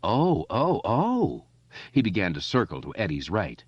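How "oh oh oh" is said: high, swooping mock wails; jeering high "oh"s; mocking squeal. A narrator's reading. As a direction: squeal in fake distress. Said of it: "Patrick Hochstetter squealed".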